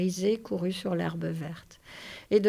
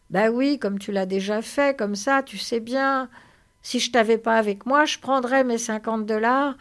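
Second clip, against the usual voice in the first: louder, eagerly prompting; Lénie, childlike companion; 4 semitones higher, 7 dB louder than usual. Acted. Lénie coaxes George to repeat the old speech, eager role voice. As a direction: recite it eagerly like a big child.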